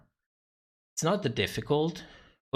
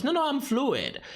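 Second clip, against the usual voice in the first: mock Michelle; 4 semitones higher than usual. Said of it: "she goes".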